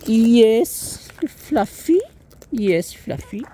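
loud, high, delighted greeting; excited high greeting. Real, not acted.

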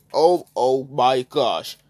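shocked. Acted. Shocked at the pepper spraying.

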